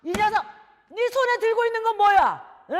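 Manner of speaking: loud, high-pitched scolding; angry father. Acted. Father catching his son with a book, angry. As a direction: demand an answer like an irate father.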